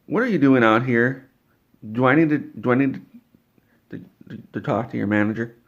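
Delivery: rushed, stumbling over to, to; an irate customer tripping over her words; stuttering angry. Retold or imitated. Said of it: "And she stuttered just like that".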